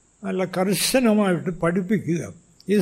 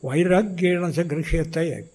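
Sanskrit verse. Retold or imitated. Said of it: "ഭഗവാൻ തന്നെ പറയുന്നു".

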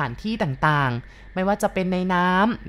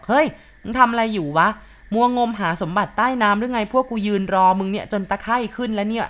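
shouting from the bank; 3 semitones higher than usual. Acted. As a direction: call out across the canal, mocking. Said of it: "เสียงตะโกนเรียกมาจากด้านหลัง". (ตะโกนเรียกจากริมตลิ่งอย่างล้อเลียน)

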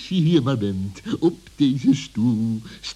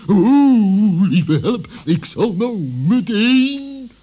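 startled panic; 6 semitones higher, 5 dB louder, slower than usual. Acted. Fox hears rope is loose.

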